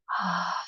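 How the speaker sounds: soft exhaled ah sigh; dramatic sigh. Shown as a demonstration. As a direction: breathe out an audible ah. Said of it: "Make the sound".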